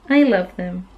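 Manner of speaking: whisper. Real, not acted. Whispered aside about dragons.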